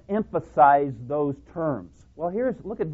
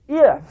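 "if" hit much higher and louder; stress on IF; 11 semitones higher, 9 dB louder than usual. Shown as a demonstration. Preacher driving home "if" to the congregation. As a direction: punch "if" high and loud. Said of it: "high loud if".

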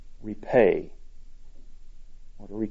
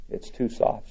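breathy sigh, softer and unvoiced; 6 dB quieter than usual. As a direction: let the words out on a sigh. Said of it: "she sighed".

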